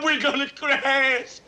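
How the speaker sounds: slow, hushed dread. Acted. Airman realising the bomber will crash, slow hushed dread. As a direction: let the fear sink in slowly.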